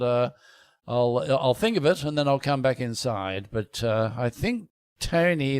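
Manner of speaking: posh English gentleman musing aloud; Isaac Newton. Pretend. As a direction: play a self-important thinker with a posh accent. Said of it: "Yeah, he'd be a bit posh".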